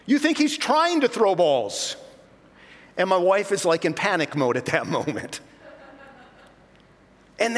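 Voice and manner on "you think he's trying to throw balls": high, slow, mocking jab with a laugh; sarcastic retort. Fed-up father sneering back at the heckling dad, laughing. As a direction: needle him with laughing sarcasm. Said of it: "I look down and I think".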